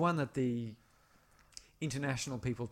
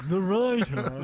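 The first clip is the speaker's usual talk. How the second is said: louder, higher mock American accent on "the rider"; put-on fifties American; 5 semitones higher, 6 dB louder than usual. Imitating the film character's accent for his cohost. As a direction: ham up the old-movie American "rider". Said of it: "Who talk like this".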